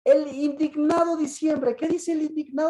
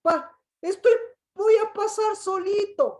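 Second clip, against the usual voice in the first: self-pitying believer; 6 semitones higher than usual. Acted. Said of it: "¿Qué más dice el indignado?".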